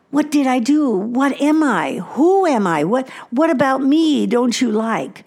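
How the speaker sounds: overwhelmed dismay. Acted. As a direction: plead in mock distress. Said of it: "Disappointment is so overwhelming to me".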